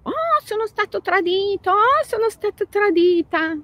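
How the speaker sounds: high, whining self-pity; mock whiny victim. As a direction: play the moaning victim, hammed-up.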